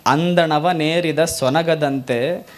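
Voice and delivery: slow devotional recitation; slow prayerful vachana intoned to the Lord; vachana recital. Acted. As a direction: chant the verse slowly, praying. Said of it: "Basavanna ಅಂತಾನೆ".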